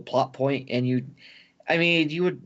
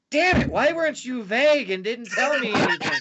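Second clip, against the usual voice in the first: mock frustration; 10 semitones higher than usual. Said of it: "and now you're like".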